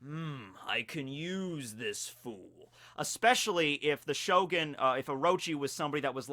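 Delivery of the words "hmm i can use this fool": slow, low, soft villain murmur; scheming villain. Retold or imitated. Kaido sizing up Orochi, slow low villain murmur. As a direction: savour it like a scheming warlord.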